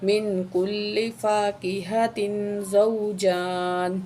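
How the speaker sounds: whole verse recited slowly; tajweed recitation, unhurried. Shown as a demonstration. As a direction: recite the full verse with care. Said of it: "تو پوری آیت پڑھتے ہیں".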